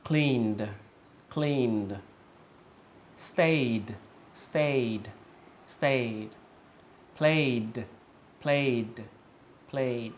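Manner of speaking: "Cleaned", "Stayed", "Played" each ending in a voiced D; careful model "Cleaned", "Stayed", "Played", final D sounded; clear D ending. Shown as a demonstration. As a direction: drill "Cleaned", "Stayed", "Played" as isolated one-syllable words. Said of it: "pronunciation is clearly a D sound".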